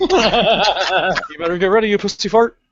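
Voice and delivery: slow, drawn-out taunt through laughter; hammed-up slow villain taunt, laughing; menacing stomach voice. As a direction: play the gut as a cocky villain. Voicing the rumbling stomach.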